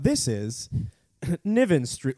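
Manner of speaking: train station announcement. Pretend. Mimicking subway stop call.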